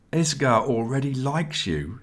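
high-pitched, mild whine; plaintive. A narrator's reading. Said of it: "said Nelson plaintively".

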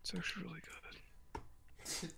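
slow breathy whisper. Acted. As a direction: whisper it slowly. Hyped then whispered repeat.

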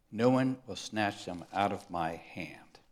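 hushed whisper of comfort; whispered scripture. Real, not acted. Preacher reads Jesus' promise to his sheep in a whisper. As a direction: breathe the promise.

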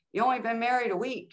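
mock-astonished, pitched well up; imitated incredulous boss. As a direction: act out a boss's astonished reaction. Boss reacts to her crying.

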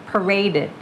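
"paraded" as pa-RAY-did; added -ed syllable. Shown as a demonstration. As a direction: model "paraded" in three clear syllables. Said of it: "อย่าไปกลัว dirt".

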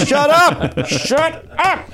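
high-pitched comic protest; mock exasperation. Fan heckling the Yankees announcer, mock exasperated. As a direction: yell it upward as a fed-up heckle.

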